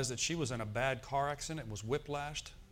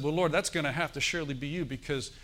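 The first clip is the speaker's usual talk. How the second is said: preaching emphasis; 4 dB louder than usual. Real, not acted. Preacher retelling inner talk.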